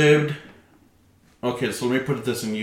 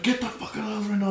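high, slightly softer imitation of scolding; mock angry mom; 10 semitones higher, 5 dB quieter, faster than usual. Mom throwing kids out, mock high-pitched scolding.

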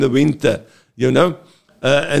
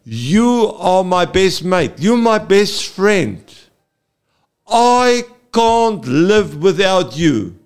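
sincere confession; 4 semitones higher than usual. Shown as a demonstration. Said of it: "put the emphasis on it".

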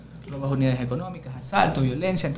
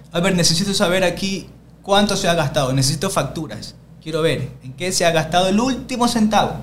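imperious demand; 2 semitones higher, 3 dB louder than usual. Retold or imitated. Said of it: "Así, todo el mundo nos quedamos viendo".

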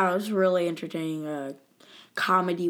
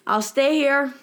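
eager Monk. Retold or imitated. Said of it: "And Monk is like".

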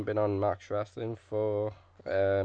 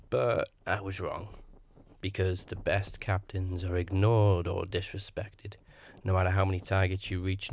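wrestling promo. Acted. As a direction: cut a dramatic wrestling promo. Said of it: "cut a promo".

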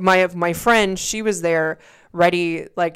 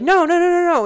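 high, louder string of refusals; imitated refusal; 12 semitones higher, 5 dB louder than usual. Bride imitating her groom's refusal to see her, high-pitched. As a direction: mimic a high-pitched, insistent no.

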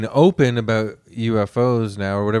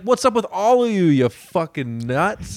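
exasperated retort; 6 semitones higher than usual. Retold or imitated. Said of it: "Well, it's like".

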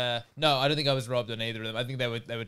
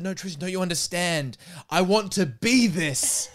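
mock earnest plea dissolving into a laugh; laughing through a quote; 5 semitones higher, 4 dB louder than usual. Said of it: "but Tom said".

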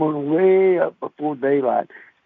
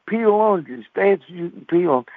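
mama's voice; 5 semitones higher than usual. Retold or imitated. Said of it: "And said".

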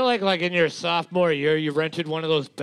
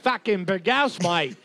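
mock Australian accent. Co-host joining the accent joke, mock Australian accent. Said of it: "That's my Australian accent".

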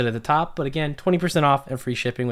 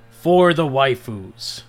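drawn-out, louder battle cry; mild mock scream; 6 dB louder, slower than usual. A narrator's reading. Graves charges off in the story, mock scream. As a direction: stretch it out as a hammed-up war cry. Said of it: "then went screaming".

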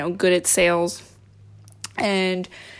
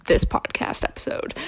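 whisper. Real, not acted. Whispered trailing aside.

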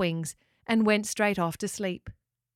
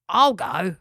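louder, eager volunteering; lightly voiced pelican; 6 dB louder than usual. A narrator's reading. Gary the pelican offers to go, lightly voiced pelican. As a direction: pipe up boldly as a pelican.

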